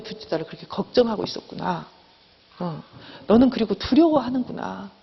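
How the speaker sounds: gently acted self-acceptance; understanding, accepting. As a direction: talk to yourself with understanding, without blame. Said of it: "이렇게 이해해주고 수용해주는 거예요". (이해하고 수용해주듯 다독이며)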